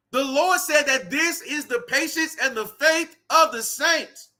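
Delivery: measured preaching cadence that lifts on the last word; emphatic preaching. Acted. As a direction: declaim it with weighty, spaced stresses, climbing at the end. Preaches scripture to listeners.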